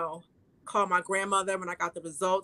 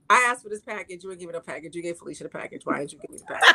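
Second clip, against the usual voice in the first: mock scolding; 2 semitones lower, 4 dB louder, faster than usual. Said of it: "Be like".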